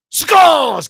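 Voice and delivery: high, loud real shout of joy; goal celebration. Real, not acted. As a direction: erupt as the ball hits the net. Penalty goal goes in.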